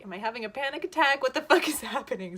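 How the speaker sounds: loud, fast panicked questions; panicked outburst. Retold or imitated. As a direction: blurt it out in rising panic. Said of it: "so I'm like".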